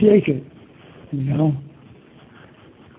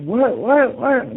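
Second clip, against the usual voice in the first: quick, higher-pitched questioning repeats; imitated startled pupils; 6 semitones higher, slower than usual. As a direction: act out a startled reaction, pitched up. Pupils reacting to screaming teachers.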